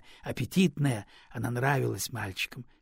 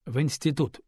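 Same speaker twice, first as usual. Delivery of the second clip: usual speaking voice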